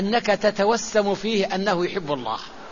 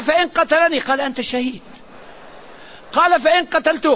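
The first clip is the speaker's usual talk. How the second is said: higher, pleading questions; raised, worried questions; anxious questioner; 5 semitones higher than usual. Acted. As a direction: ask each فإن as a worried follower. Questioner asking the Prophet.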